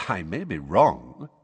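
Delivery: unhurried, mildly pleasant. Acted. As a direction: say it slowly and pleasantly. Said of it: "said Dumbledore pleasantly".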